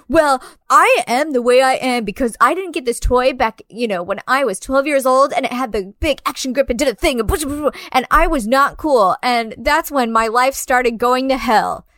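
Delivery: exaggerated mock self-pitying rant; mocking sob story. Co-host mimics movie characters blaming a missed toy, mocking. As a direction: parody a character's overblown childhood grievance.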